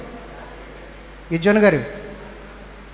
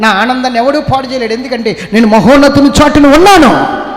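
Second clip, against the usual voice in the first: triumphant shouted sermon climax; preaching at full force; 5 semitones higher, 7 dB louder than usual. Acted. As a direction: cry it out like a revival preacher.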